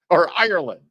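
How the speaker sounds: lightly hammed-up concerned celebrity; mocking Hollywood star. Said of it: "they say".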